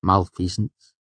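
put-on measured, accented character voice; low-voiced friend. A narrator's reading. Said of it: "Willem said in a low voice".

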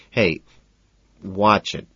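measured, mild warning. A narrator's reading. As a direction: warn him off. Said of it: "I warn".

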